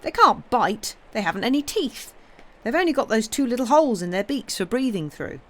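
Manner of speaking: put-on quick, high, eager boy reassuring the others; boyish boast. Pip showing off to the frightened children, quick and eager. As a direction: rattle it off like a know-it-all boy.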